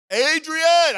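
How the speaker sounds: loud, high bellowed name; preacher imitating Rocky yelling for his girl; Rocky's holler. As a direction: bellow it like the famous boxer. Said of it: "that name that Rocky hollered".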